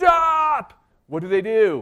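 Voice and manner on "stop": very loud, high, long-held, drawn-out yell. Describing a parent whose disobedient kid runs out toward the road: yelling stop. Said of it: "you're yelling".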